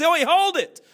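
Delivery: erupting with joy; excited shout. Pretend. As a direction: yell it, ball's in the hole. Commentator erupts as shot drops.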